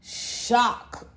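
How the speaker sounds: slow, stunned disbelief; in shock. Real, not acted. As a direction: let the shock slow you right down. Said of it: "I am in shock".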